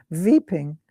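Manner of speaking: "weeping" said as "veeping"; mum's German-style "weeping", V for W. Retold or imitated. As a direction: say "weeping" with an opening V. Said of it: "to weeping".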